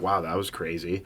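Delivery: low, soft mock-stunned quote; retold amazement. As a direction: imitate a quietly stunned onlooker. Retelling companion's reaction to watching.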